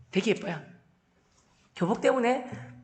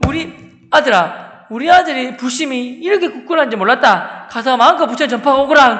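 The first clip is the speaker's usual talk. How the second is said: lightly voiced proud father, growing louder; moved father; 3 semitones higher, 7 dB louder than usual. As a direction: give a hearty fatherly blessing. Father's moved, proud approval acted out. (감격한 아버지를 살짝 흉내 내듯)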